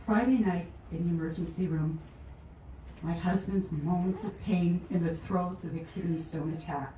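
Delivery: measured poem recital; poetry reading. Acted. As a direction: read the verse aloud line by line. Begins reading her poem aloud.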